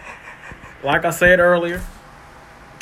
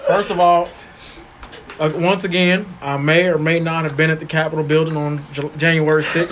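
mock country political statement; country accent; 3 semitones lower than usual. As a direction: hedge it in a put-on country accent. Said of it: "I want Troy to have country".

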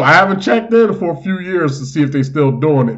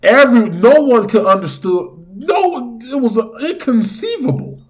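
dramatic awe; 9 semitones higher than usual. Pretend. Dramatic mock-epic storytelling.

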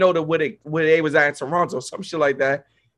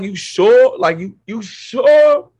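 put-on pushy drunk guy; 5 semitones higher, 4 dB louder, much slower than usual. Drunk guy pushing his luck.

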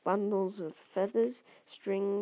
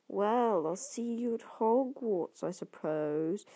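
put-on drawling boy; slower than usual. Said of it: "said the drawling boy".

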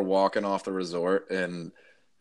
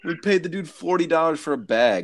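high, laughing disbelief; 9 semitones higher than usual. Real, not acted. Laughing at the story.

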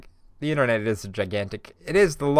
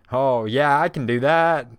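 eager Jada; 3 semitones higher, 7 dB louder, slower than usual. Pretend. Voicing Jada eagerly agreeing.

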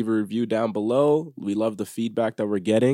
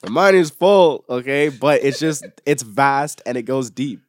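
emphatic loud; 4 semitones higher, 7 dB louder than usual. Real, not acted. Insisting loudly his mind is deep.

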